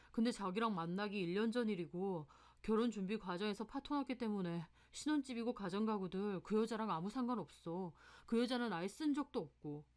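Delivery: a hint of a subdued boyfriend explaining himself; lightly voiced apologetic boyfriend. Boyfriend explains his broken engagement to his girlfriend, apologetic. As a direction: lightly play the boyfriend making excuses.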